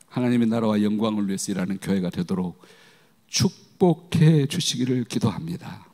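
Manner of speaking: low, measured praying voice; solemn pastoral prayer in separate phrases; closing prayer. Acted.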